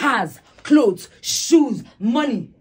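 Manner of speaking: angry listing. Acted. Wife listing his priorities angrily.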